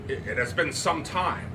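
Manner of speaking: stammering. Acted. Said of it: "Andrew stammered".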